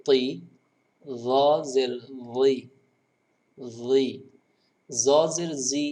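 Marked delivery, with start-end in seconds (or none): 4.9-5.8 জি said flat, not from the correct place; wrong pronunciation. Shown as a demonstration. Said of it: "এভাবে বললে সুন্দর হয়নি". (ভুল উচ্চারণে জ জের জি)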